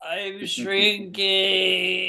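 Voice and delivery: slow fading. Acted. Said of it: "bones are disintegrating".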